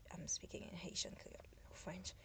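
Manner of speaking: ordinary talk, nothing marked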